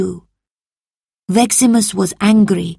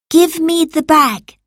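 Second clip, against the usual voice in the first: loud, high-pitched firm demand; commanding; 11 semitones higher, 5 dB louder than usual. A narrator's reading. Marcus to Salvius holding the bag, commanding. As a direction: order a servant to obey. Master orders servant to hand over.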